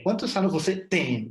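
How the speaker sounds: "cuántos" hit high at the start, then falling through "você tem"; question tune demo. Shown as a demonstration. Teacher contrasting question curves for lusophone learners, high falling start. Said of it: "en portugués le damos más importancia al final".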